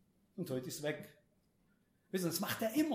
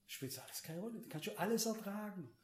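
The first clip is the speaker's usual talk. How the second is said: very soft, almost under the breath; hushed reassurance; 8 dB quieter than usual. Real, not acted. Preacher reassures congregation they can bear everything, hushed. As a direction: drop right down to reassure.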